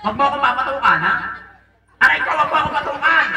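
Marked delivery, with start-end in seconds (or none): 2.0-3.3 higher-pitched playful complaint; mock pained protest. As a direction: protest as if just bonked. Pretend pain after being hit. (kunwaring nasaktan na reklamo)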